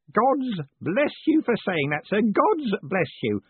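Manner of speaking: high, slow, choked-up gratitude; tearful old Grote. A narrator's reading. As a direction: thank him through tears. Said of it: "Tears were beginning to roll".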